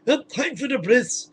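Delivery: high, slow, hammed-up mohel voice; sing-song sinister mock mohel. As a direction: mohel entering to do the ritual, hammed-up. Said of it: "he says".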